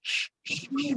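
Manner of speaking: sh, sh, sh with pouted lips; pursed sh sound. Shown as a demonstration. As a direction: isolate the hushing sh sound, lips pushed forward. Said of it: "monyong ya bunyi S Y-nya".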